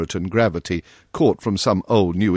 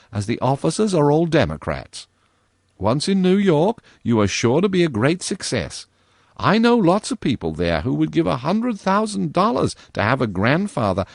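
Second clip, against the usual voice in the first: put-on high girlish voice, scolding and aggrieved; lightly voiced girl, huffy; indignant girl; 7 semitones higher than usual. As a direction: tell him off as a cross young girl. Virginia lectures the ghost.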